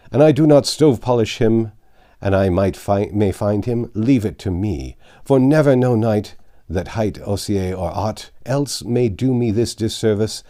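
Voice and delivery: loud, bitter knight swearing an oath; bitter cursing knight. Acted. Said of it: "brake out anew with cursing".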